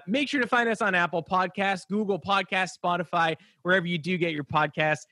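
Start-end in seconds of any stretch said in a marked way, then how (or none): 2.8-3.4 Spotify with a slight Boston accent; Spotify said lightly Boston, flat broad vowel; a hint of Boston in Spotify. Real, not acted. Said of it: "Why did I say Spotify in a Boston accent?".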